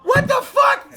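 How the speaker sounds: shocked outburst. Retold or imitated. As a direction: blurt it out in disbelief. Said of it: "And I was like".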